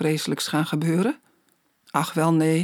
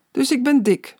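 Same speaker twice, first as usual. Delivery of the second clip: higher, mildly groaned complaint; groaning; 7 semitones higher, 3 dB louder than usual.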